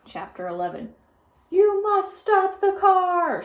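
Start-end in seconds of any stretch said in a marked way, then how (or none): 1.5-3.4 high, loud, slow order; shout. A narrator's reading. Policeman shouts at the speeding driver. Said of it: "shouted Officer Tomolello".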